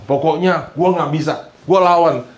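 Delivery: defiant. Retold or imitated. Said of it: "Ada juga yang".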